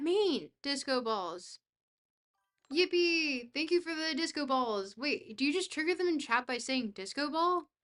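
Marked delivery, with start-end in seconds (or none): 2.7-4.9 excited cheer. Real, not acted. Cheering at disco balls.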